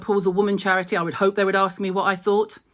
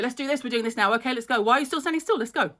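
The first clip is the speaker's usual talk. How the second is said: impatient boss; 5 semitones higher, faster than usual. Retold or imitated. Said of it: "that's your A D H D for you".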